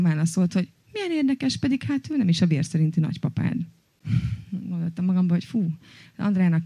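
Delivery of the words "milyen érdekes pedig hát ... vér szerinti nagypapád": breezy retold remark starting high, settling to normal; casual, matter-of-fact imitation of a cousin; light but firm. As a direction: toss it off lightly yet with certainty. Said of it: "kicsit olyan könnyed egyszerűséggel, de nagyon határozottan".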